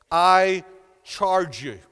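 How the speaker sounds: grave, weighty charge, broken by a pause; solemn charge. Acted. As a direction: lean hard on the first word, then pause. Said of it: "Now that's pretty serious".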